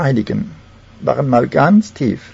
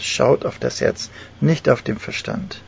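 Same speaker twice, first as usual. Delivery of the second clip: soft and slow; 8 dB quieter, slower than usual. Acted. Repeating Jesus' words, softer.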